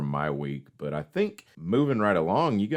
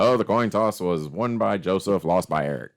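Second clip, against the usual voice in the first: louder, punchier sportscaster call; frantic mock sports commentary; 4 dB louder than usual. Shown as a demonstration. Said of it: "Do I sound like a sports commentator?".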